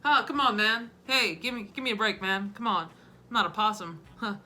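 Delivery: rambling politician with sudden loud calls; disjointed folksy talk, bursting out now and then; Joe Biden. Acted. Comic mimicking a politician losing his thread, sudden shouts. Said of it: "how about Joseph bin Biden?".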